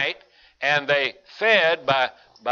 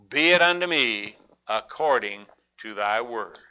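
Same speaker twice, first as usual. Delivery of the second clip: solemn surrender; 4 semitones lower than usual. Acted. Mary's solemn acceptance quoted.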